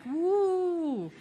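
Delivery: laughing mock cheer; my own whoop. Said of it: "And I would be like".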